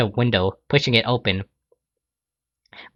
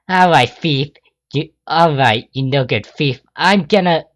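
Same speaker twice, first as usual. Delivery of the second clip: higher, louder angry scold; angry Rainbow; 4 semitones higher, 4 dB louder than usual. Acted. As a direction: tell off the no good thief. Rainbow pins the thief.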